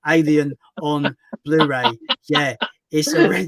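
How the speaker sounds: slow, stiff scripted robot read. Shown as a demonstration. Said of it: "I just sound like a robot".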